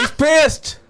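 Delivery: laughing high. Real, not acted. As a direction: giggle the words out. Laughing at iguana.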